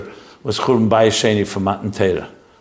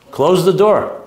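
higher and louder, insistent; firm command; 7 semitones higher, 3 dB louder, slower than usual. Real, not acted. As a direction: snap the order out firmly. Repeats request to close door.

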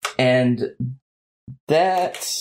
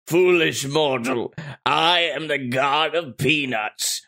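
put-on slow, lofty old goddess voice; a lightly voiced grand old Nana. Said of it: "can you say, "Remind me what you're the god of".

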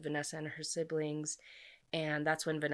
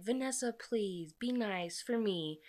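retold plea, pitched up and drawn out; mock pleading; 5 semitones higher than usual. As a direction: imitate a mom gently begging, higher voice. Mother begging daughter, retold.

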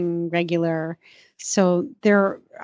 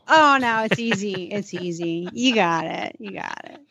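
reassuring; 2 semitones lower than usual. Real, not acted. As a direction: gently talk them out of the nerves. Host reassures nervous reviewer playfully.

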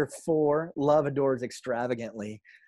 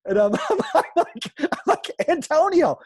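overjoyed; 9 dB louder than usual. Retold or imitated. Overjoyed greeting retold.

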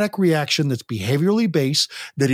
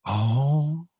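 put-on toddler voice; 3 dB quieter than usual. Shown as a demonstration. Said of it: "use the toddler voice".

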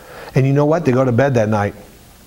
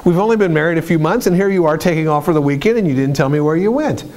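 mock furious wife; 4 semitones higher, faster than usual. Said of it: "She's angry. She's furious with him".

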